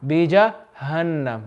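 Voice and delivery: बीजहन्नम softly, with a light h. Shown as a demonstration. Teacher corrects a student, बीजहन्नम with soft h. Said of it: "ये हा soft होना चाहिए".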